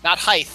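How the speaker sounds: "height" said as "highth"; mispronounced height. Shown as a demonstration. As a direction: end HEIGHT in a TH. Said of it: "width has that T H to it".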